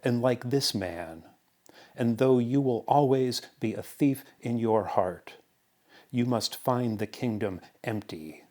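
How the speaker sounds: deliberate parable recital, pausing between phrases; poetry reading. Acted. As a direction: tell it like a measured fable. Reads parable poem aloud.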